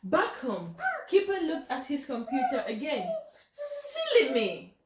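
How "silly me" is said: high, slow, giggly self-mockery; chuckling silly me; laughing at himself.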